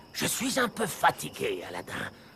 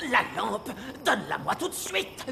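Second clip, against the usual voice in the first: demanding through a sly chuckle; menacing laugh. Acted. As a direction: laugh darkly while ordering. Villain demands lamp, laughing.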